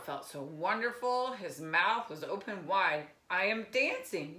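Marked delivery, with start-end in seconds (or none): 3.3-4.4 louder, lifted joyful call; joyful cry. Acted. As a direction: announce it, delighted. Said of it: "Gerald cried".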